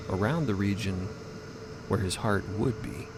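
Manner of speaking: usual speaking voice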